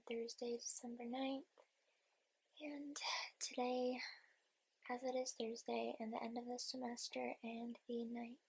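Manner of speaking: sleepy hushed whisper; half-whispered early morning voice. Real, not acted. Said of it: "morning voice".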